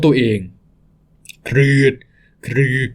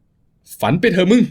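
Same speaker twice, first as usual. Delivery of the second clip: slow sneer; 4 semitones higher, much slower than usual. Acted. Thug sneers at escape.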